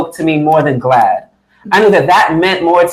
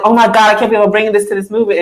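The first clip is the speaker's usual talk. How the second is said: retold distress; 4 semitones higher, much faster than usual. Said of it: "really emotional".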